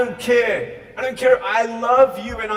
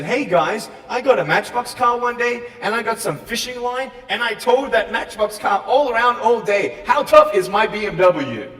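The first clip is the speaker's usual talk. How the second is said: mock bragging; 3 semitones higher, 3 dB louder than usual. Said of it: "I would sound so stupid if I said".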